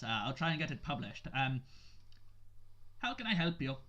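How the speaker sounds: a hint of a rambling, pompous old shopkeeper; old halfling bookseller. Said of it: "And he goes".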